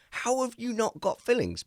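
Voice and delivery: high, incredulous question; amazed question. Retold or imitated. To sister-in-law about her teeth, high incredulous. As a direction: ask in mock disbelief. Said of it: "I'm like".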